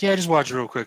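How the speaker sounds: coaxing. Retold or imitated. Partner nagging to watch a clip, coaxing. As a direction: imitate a partner pushing eagerly.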